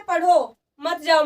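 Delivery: slow "पढ़ो", brief break, "मत जाओ" together; pause after पढ़ो. Shown as a demonstration. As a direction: set "पढ़ो" apart as its own command. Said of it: "आपको पढ़ना है और जाना नहीं है". ("पढ़ो" पर रुककर, फिर "मत जाओ")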